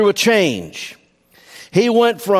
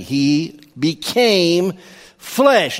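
very slow, "became" drawn out and set apart before "flesh"; emphasis on became; much slower than usual. Real, not acted. Preacher stressing the key word to his congregation, emphatic "became". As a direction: stretch "became", pause, then land "flesh". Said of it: "you're gonna hear me emphasize the word became".

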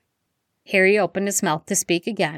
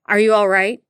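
worried father; 4 semitones higher, 6 dB louder than usual. Acted. Father checking on his children.

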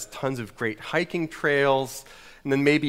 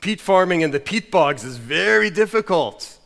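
mock Scottish pastor with weighty pauses; old Scottish pastor. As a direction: preach a parable in a hammy Scottish accent. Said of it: "this old Scottish pastor said".

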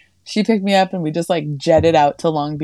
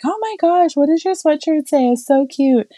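much higher, gushing sweet-lady voice; mock sweet old-lady gush; gushing older women; 10 semitones higher than usual. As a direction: coo over it like a delighted older lady. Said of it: "they're older women, they're like".

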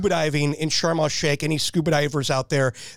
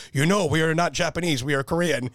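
lightly voiced Korean officer, near usual pitch; Korean colonel, toned down. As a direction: retell the colonel's line with only a hint of imitation. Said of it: "that same colonel came up to me and he says".

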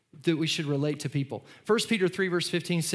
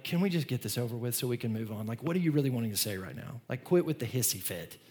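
lower, weary tuned-out mutter; bored players; 5 semitones lower, 4 dB quieter than usual. Retold or imitated. Players tuning out their yelling coach, lower and bored. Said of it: "they're just going, like".

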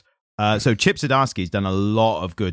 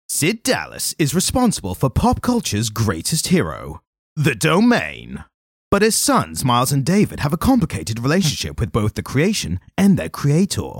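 movie trailer voice; 3 semitones higher than usual. Shown as a demonstration. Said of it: "my movie trailer voice".

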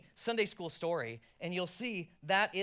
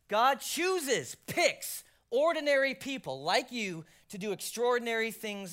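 louder, ringing emphasis; emphatic preaching; 5 semitones higher, 5 dB louder, slower than usual. Acted. Pastor driving home his point, emphatic. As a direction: press hard on chooses.

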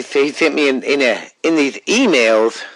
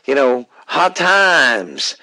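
Dusty Rhodes impression; much slower than usual. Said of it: "I don't mean to sound like him".

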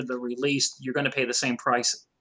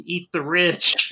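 drawn-out, slightly louder mock rallying cry; half-hearted imitation of a scream; 2 semitones higher, 5 dB louder, much slower than usual. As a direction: stretch out the slogan, a bit loud.

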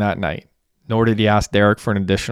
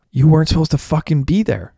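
high-pitched, heated protest, moderately raised; indignant shout; 7 semitones higher than usual. A narrator's reading. Messy blames Derek for being there, indignant shout. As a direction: throw the blame back in a raised voice. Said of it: "shouted Messy".

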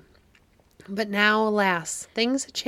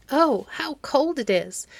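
shivering; 6 semitones higher, slower than usual. A narrator's reading.

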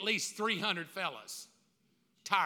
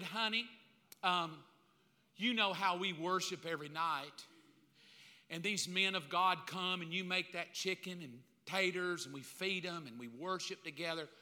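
mock sweet husband; 3 semitones lower, 5 dB quieter than usual. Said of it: "I would have said".

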